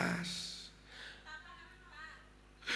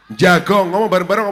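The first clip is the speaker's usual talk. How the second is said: insistent demand; 8 dB louder than usual. Acted. Demanding husband speak up.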